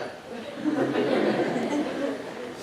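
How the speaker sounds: soft, breathy knowing laugh; hushed little laugh; breathy chuckle. Retold or imitated. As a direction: chuckle quietly in anticipation. Acts expectant reaction to the man.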